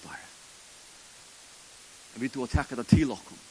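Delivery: earnest spoken prayer, rising and falling. Acted. Pastor praying over the congregation, earnest. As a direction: pray it sincerely to the Lord.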